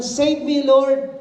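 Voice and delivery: high, loud cry of save me Lord; crying out for help. Retold or imitated. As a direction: shout save me Lord like he's sinking. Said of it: "Hindi siya sumigaw ng". (malakas na sigaw ng saklolo)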